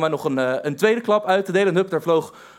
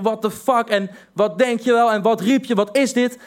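higher, mock aggressive yelling; retold shouting; 5 semitones higher than usual. Boy confronting cyclists on the path, mock angry. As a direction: imitate the boy shouting in your face. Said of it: "hij begint meer te schreeuwen".

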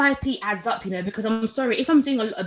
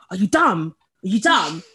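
imitating an irate caller, a bit louder; retold rude scolding, punched on each repeat; rude customer; 3 semitones lower, 6 dB louder than usual. Angry customer telling off a new salesperson, mock rude. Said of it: "he was so rude".

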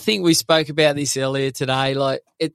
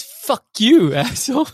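mild mock yell; 9 semitones higher, 3 dB louder than usual. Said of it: "He goes".

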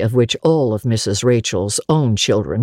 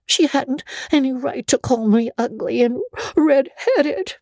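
put-on high, girlish, defiant comeback; a hurt girl snapping back at her guardian; defiant retort; 13 semitones higher than usual. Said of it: "retorted Anne, evasive and defiant".

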